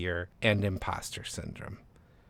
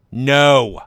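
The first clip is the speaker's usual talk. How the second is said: sharp loud high no; flat refusal; 4 semitones higher, 12 dB louder than usual. Acted. Agent refusing the author outright, a sharp loud no. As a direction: shut it down hard.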